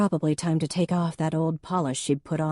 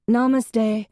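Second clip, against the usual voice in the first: loud, much higher call from upstairs; 7 semitones higher, 7 dB louder than usual. A narrator's reading. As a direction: sing it down from the yoga room. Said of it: "Ange called".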